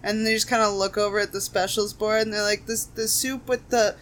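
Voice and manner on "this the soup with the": hesitant customer, voice lifting into a question; tentative mock order that trails up; unsure customer. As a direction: imitate a diner feeling out the dish's name. Imitates customer unsure of dish name.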